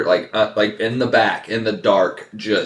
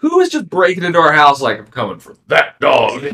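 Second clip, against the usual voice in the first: laughing, high-pitched retelling; 10 semitones higher, 7 dB louder than usual. Real, not acted.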